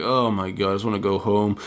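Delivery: a mild hint of a worn-out worker after a long shift; knackered. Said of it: "he's knackered, he's like".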